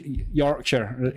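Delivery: badly faked Yorkshire accent on "Yorkshire"; half-hearted Yorkshire pronunciation; attempted Yorkshire accent. Shown as a demonstration. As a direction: have a weak go at Yorkshire. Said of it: "I can't do a Yorkshire accent".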